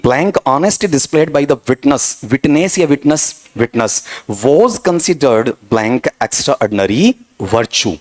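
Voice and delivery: reading the question aloud very slowly; slow dictation. Shown as a demonstration. Teacher dictating a test sentence to students, slowly. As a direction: spell out each word like dictation to a class.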